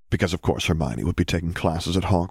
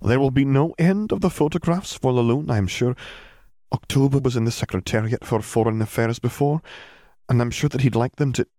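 a touch higher, dry and knowing; wry McGonagall; 6 semitones higher than usual. Acted. Headmistress explaining to Hermione, dryly scornful. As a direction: sneer lightly at the politics.

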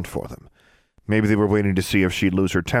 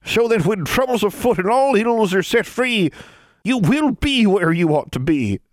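ancient crone voice; 4 dB louder than usual. A narrator's reading. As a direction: creak it out like an ancient witch. Seated crone speaks.

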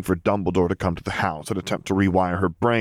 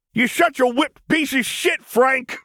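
high, loud slow jeer; angry insult; 4 dB louder, slower than usual. Acted. Vampire jeering at the winning secretary, high and loud. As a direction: hurl it at him.

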